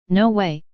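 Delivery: a sharp, punchy refusal on No way; firm, clipped-off burst on No way; emphatic. A narrator's reading. Debbie refusing the bag of pot, emphatic. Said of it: "she said emphatically".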